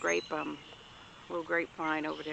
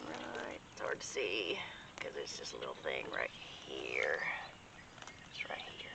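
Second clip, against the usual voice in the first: whispering; 10 dB quieter than usual. Real, not acted. Pointing at a tiny plant.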